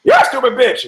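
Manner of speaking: loud, very high parrot squawk; high-pitched bird voice. Acted. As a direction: screech it like an insolent talking parrot. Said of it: "the parrot's looking and goes".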